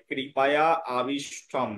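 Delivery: কৃপায়া আবিষ্ঠম with the আ glided into the word before; demonstrated pronunciation. Shown as a demonstration. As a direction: sound out কৃপায়া আবিষ্ঠম as a Sanskrit lesson. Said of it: "এর উচ্চারণ হবে".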